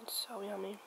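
a contented little whisper. Real, not acted. To viewers, tasting her breakfast, whispering. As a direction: whisper it between bites.

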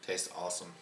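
talking between bites; speaking while eating; mouth full, chewing. Real, not acted. Seen 0: Took spoonful just before; head down, mouth working over bowl.

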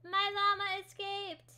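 high, slow wail of loss; dismayed wail. Real, not acted. Gamer wailing after her escaped llama, dismayed. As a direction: drag it out in dismay.

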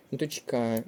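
Дочка stressed on final КА; stress on second syllable. Shown as a demonstration. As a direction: land on КА in Дочка. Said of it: "наголос на другий склад".

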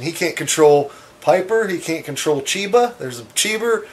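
usual speaking voice

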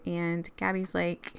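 ordinary talk

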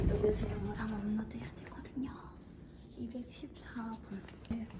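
hushed whisper. Real, not acted. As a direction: whisper so as not to disturb. Whispering in the hotel.

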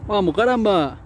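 ánimo agudo y tenso; aliento. Real, not acted. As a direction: alentando al pescador. Alentando durante la pelea. ("vamos, caramba" con aliento tenso)

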